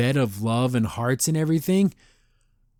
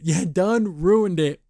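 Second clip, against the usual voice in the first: drawn out through a laugh, slower; slow laughing repeat; 4 semitones higher, slower than usual. Real, not acted. Teasing Hootie for ruining the date, slow and laughing. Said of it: "Hootie, you done ruined it".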